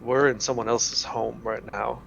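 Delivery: slightly hushed, hesitant in-character report; quietly brief the party on a danger; careful, halting, understated warning; wary scout reporting. Acted.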